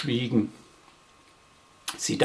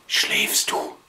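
whispered question. Acted. Little Wischel whispering in bed at night, hushed. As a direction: whisper it so nobody wakes. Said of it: "flüsterte Wischel".

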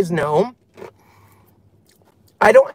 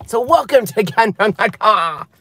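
put-on lilting Irish leprechaun accent; a hint of a leprechaun brogue; 3 semitones higher than usual. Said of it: "I sounded like a leprechaun".

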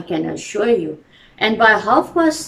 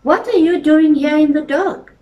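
louder, higher call into the night; 6 semitones higher, 6 dB louder than usual. A narrator's reading. Game warden calls to the pair by the lake, louder and higher. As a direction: hail them from a distance. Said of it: "called a deep voice".

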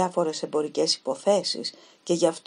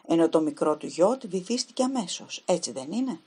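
put-on a young woman's voice, lightly raised, anxious; nervous young Helen. Helen questions the detective about the yacht, anxiously. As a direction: ask it as if afraid of the answer.

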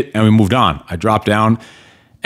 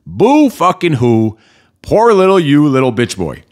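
mocking scorn; 3 semitones higher than usual. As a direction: taunt a whiner with sarcastic sympathy. Mocks an imagined self-pitying complainer.

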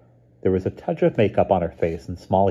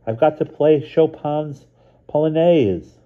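put-on a much higher, urgent girl's voice; a frightened friend sounding the alarm over the wire; alarmed young girl; 10 semitones higher, 6 dB louder, slower than usual. A narrator's reading. Mouse warning Lynn on the phone about the full moon, alarmed and high.

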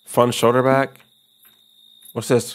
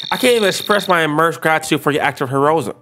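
sarcastic emo; 3 semitones higher than usual. Acted. Emo neighbor mocking Charles, lightly voiced and sarcastic. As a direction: sneer it like a gloomy emo.

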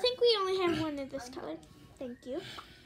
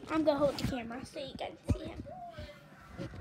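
whispering; 6 dB quieter than usual. Real, not acted. Whispering while filming.

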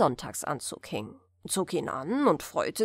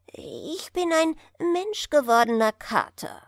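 proud, a little higher and louder; proudly; 5 semitones higher, 4 dB louder than usual. A narrator's reading. The cat tells the rector proudly what he is. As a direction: announce it with puffed-up pride. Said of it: "sagte unser Freund stolz".

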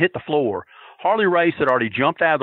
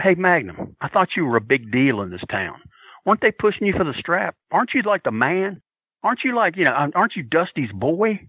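higher, sarcastic heckling; mocking heckle; 3 semitones higher than usual. Fan heckling Magnum from ringside, sarcastic. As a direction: needle him with fake disbelief.

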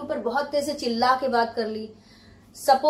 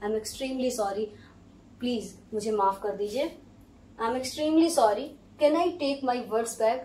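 humble apology; slower than usual. Shown as a demonstration. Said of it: "देखिए".

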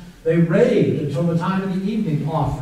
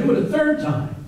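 high command; 10 semitones higher than usual. Retold or imitated. Elijah commands again.

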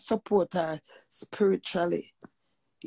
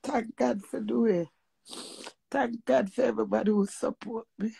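tearful; 3 semitones higher, 4 dB quieter than usual. Real, not acted. Grieving mother thanking her supporters, tearful. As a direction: thank them through real tears. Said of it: "just emotional".

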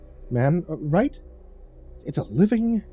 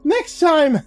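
much higher, louder screech of "Next time?"; 14 semitones higher, 3 dB louder than usual. A narrator's reading. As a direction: shriek "Next time?" in outrage. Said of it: "I flailed my arms and screeched".

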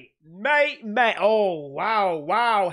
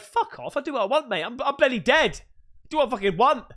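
cheeky ghost voice; 6 semitones higher, faster than usual. Retold or imitated. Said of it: "I'd be like".

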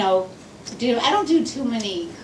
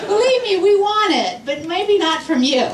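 higher, exasperated scolding with laughs; mock scolding lecture; 5 semitones higher than usual. Comic scolding the men in the crowd, exasperated and laughing. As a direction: wag a finger at the room, half laughing.

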